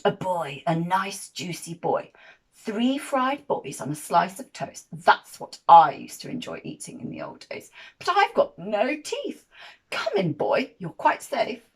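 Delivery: put-on loom over the boy and savour the word juicy; old giant voice. Old giant welcoming a boy to breakfast, booming.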